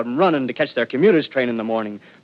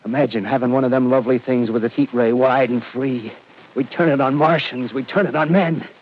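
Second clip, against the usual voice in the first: growing fervor; 3 semitones higher, 3 dB louder than usual. Acted. Artilleryman's fevered dream of power.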